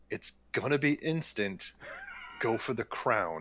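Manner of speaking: hushed, whispered delivery. Playing a character who leans in close to a captive: whispering in character.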